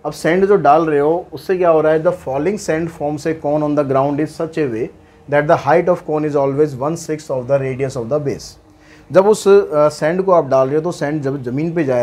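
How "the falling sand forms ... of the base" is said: very slow, word by word, for students to copy; dictating the question to students, slow and even; slow dictation read. Shown as a demonstration. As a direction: read it out so the class can write it down. Reads the question slowly.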